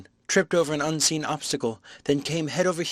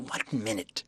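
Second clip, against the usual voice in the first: tremulous self-control; 7 dB quieter, slower than usual. Acted. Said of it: "penetratingly, tremulous with self-control".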